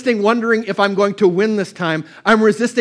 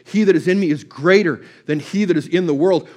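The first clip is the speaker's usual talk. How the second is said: recalled scripture, full of wonder; awe and wonder. Retold or imitated. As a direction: marvel at every phrase. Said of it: "like an awe and wonder".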